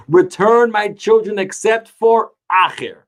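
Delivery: a hint of a divine call; heavenly proclamation. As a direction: call it out a little from on high. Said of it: "the proclamation said".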